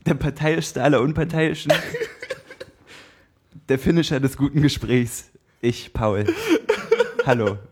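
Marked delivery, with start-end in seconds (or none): 0.0-6.3 boxing ring announcer. Acted. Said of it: "Paul sein Intro machen".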